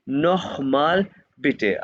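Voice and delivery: नोखमाल बिटे drawn out slowly with a throaty kh in नोखमाल; German pronunciation demo. Shown as a demonstration. Teacher repeating the phrase so students copy it, slow. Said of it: "मैं तो बार-बार कह रहा हूँ".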